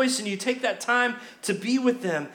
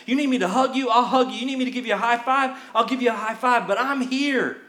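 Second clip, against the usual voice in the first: earnest caring friend; 3 semitones higher than usual. Pretend.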